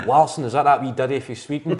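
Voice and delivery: imitating dad, laughing. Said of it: "my dad's words were".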